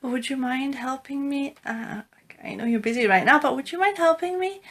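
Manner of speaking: soft, hesitant plea to someone busy; tentative request. Shown as a demonstration. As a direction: ask gingerly, softly, with a hesitation midway. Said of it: "the person might be busy".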